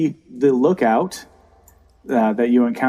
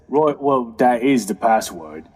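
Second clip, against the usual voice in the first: Sammy Joe. Acted. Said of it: "Sammy Joe says".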